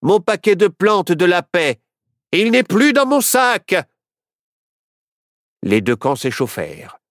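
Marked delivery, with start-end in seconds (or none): 0.0-3.7 higher, alarmed exclamation; crying out. A narrator's reading. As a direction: cry out in dismay. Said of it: "s'écria".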